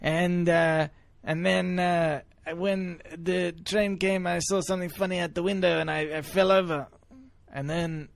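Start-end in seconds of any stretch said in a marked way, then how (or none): 0.0-6.9 put-on thick French accent. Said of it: "It's a, it's a good accent".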